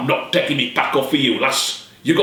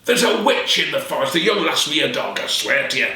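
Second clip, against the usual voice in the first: shouting; 6 semitones higher than usual. Acted. Cursed peddler shouting from his sickbed. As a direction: cry it out in terror. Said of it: "Law shouted".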